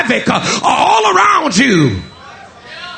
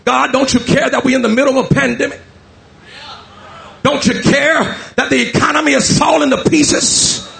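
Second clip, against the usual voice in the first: pleading cry; 2 semitones higher than usual. Acted. People pleading with God, rising.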